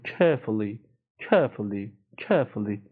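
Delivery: British "Carefully", first vowel stretched, R silent; non-rhotic British "Carefully"; British, drawn-out vowel. Shown as a demonstration.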